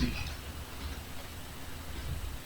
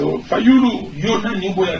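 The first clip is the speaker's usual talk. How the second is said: loud rally call; 3 semitones higher, 6 dB louder than usual. Real, not acted. Politician rousing a crowd against Tshisekedi, loud call.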